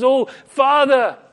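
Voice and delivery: loud, high, drawn-out plea to God; imploring prayer. Retold or imitated. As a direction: call out slowly to the Father in prayer. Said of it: "he clearly prayed to the Father".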